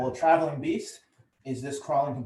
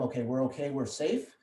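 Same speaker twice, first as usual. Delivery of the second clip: reassuring self-talk; 4 dB quieter than usual. Retold or imitated. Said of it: "tell my nervous system".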